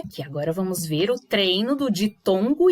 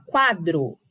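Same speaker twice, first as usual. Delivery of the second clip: "quadro" with a stronger QUA than DRO; stress on QUA; 4 semitones lower than usual. Shown as a demonstration. Teacher proving which syllable is stronger, stressed QUA. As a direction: lean on QUA, let "dro" fall. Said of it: "Sai mais forte do que o dro".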